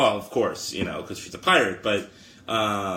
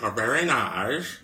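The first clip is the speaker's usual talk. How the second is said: slow, garbled mock Chinese accent; exaggerated, inexpert Chinese accent; slower than usual. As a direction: stretch it out in a put-on Chinese accent. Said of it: "That'd be Chinese, too, to me".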